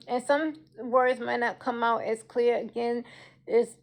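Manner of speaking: soft consonants, no teeth; toothless speech. Real, not acted. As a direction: talk without teeth. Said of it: "because of me surviving cancer and, of course, not having teeth".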